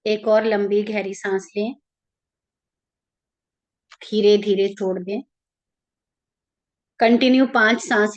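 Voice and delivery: calm, even meditation guide with long pauses; guided meditation. Real, not acted. Leading listeners into an Ekadashi meditation for their ancestors, calm guided-meditation voice.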